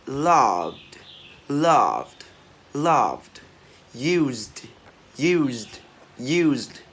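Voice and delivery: "damaged, loved, used" ending in a released d. Shown as a demonstration. Teacher drilling D endings, "used, followed" with released d. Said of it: "chúng ta sẽ đọc bật là âm D".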